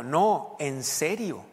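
mildly insistent retort; insistent, not joking. Retold or imitated. Acquaintance thinks the pastor is joking, insistent. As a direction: press for a straight answer. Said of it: "pensaba que estaba bromeando".

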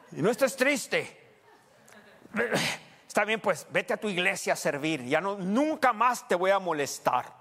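mock the husband's self-pitying exit, laughing; laughing through mock farewell. Preacher laughs while quoting the sulking husband's goodbye.

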